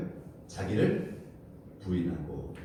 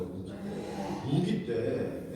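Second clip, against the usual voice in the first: drawn out, word by word; slow preacher's emphasis; slow emphatic repeat; much slower than usual. Acted. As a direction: stretch 우기 때 slowly, each syllable weighted.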